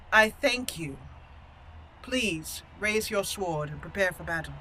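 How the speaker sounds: measured, courteous noble, softening after the first words; gracious noblewoman. Acted. Noblewoman addressing her opponent before battle, gracious. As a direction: graciously accept with composed formality. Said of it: "she would graciously say".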